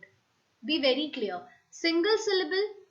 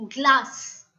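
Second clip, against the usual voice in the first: glass said loud and firm; emphatic example word; 8 dB louder than usual. Shown as a demonstration. Teacher calling out an example word to the class, loud. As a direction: hit glass loudly so the class hears one beat. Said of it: "If I tell you".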